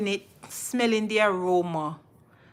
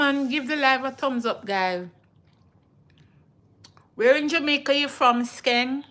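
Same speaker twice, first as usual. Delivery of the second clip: excited; 4 semitones higher, 4 dB louder than usual. Real, not acted. Calling out question to viewer.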